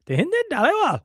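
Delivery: high, unsure attempt at a South Asian accent. Cohost nervously tries the name in a South Asian accent. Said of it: "Can I do".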